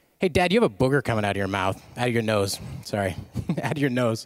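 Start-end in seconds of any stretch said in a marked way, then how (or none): none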